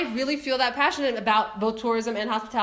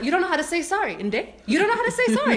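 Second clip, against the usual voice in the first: indignant scolding; 4 semitones higher than usual. Retold or imitated. Scolding the airline again.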